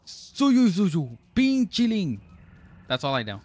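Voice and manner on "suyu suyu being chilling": high, drawn-out sing-song voice; silly high voice. Acted. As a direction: stretch it out, high and goofy. Playful silly voice on game chat.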